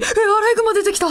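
startled, laughing cry of surprise; surprised gasp. Retold or imitated. Alone in her room, spotting a raccoon: laughing surprise. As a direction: blurt it out, half laughing.

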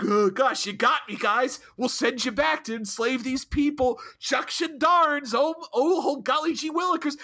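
a mild parody of a captain caving in; mock meek Janeway. Host mocking Janeway's surrender, hammed-up meek whine. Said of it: "she's like".

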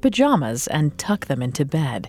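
true crime narrator. A narrator's reading. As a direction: narrate it like a dark documentary. Dramatic true crime cold open.

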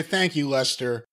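slow sincere thanks. Real, not acted. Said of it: "the real thing I wanna say".

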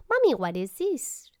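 put-on high, slow, loud child voice changing the subject; little son's voice. Son dodging mom's questions, in a high, innocent child voice. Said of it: "然后跟我讲说".

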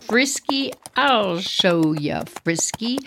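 lightly voiced taunting horse, slow; a mock horse threatening its rider. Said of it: "My horse is like".

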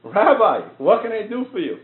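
a big hammed-up welcome, high and loud; Trump voice. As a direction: play a president thrilled to finally get the call. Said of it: "He's like".

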